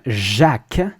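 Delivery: "Jacques" with a soft zh, no d; French soft j. Shown as a demonstration. Teacher comparing French to English, "Jacques" with soft zh. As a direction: open "Jacques" on a smooth zh sound. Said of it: "compare it to Jack".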